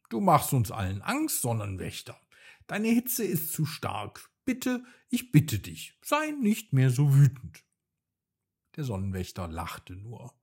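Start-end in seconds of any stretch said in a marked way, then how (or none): 0.1-7.6 loud. Acted. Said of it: "dann sagte er laut".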